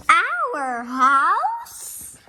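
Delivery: high, loud horrified question. A narrator's reading. Olivia horrified at hosting her friend, loud high question. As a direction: gasp it out in horror at the thought. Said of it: "said Olivia, horrified".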